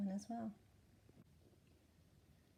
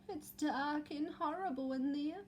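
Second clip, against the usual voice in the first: Eddie's scared voice; 5 semitones higher than usual. Acted. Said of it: "said Eddie".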